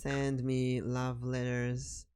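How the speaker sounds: slow, soft seductive demon purr; incubus date voice. Shown as a demonstration. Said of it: "I'll read them in an incubus date voice".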